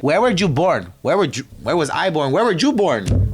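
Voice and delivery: hammed-up Colombian-accented officer grilling; imitating a thick Colombian accent. Colombian officer asking where she was born, in mock heavy accent. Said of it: "Thick ass accent, mind you".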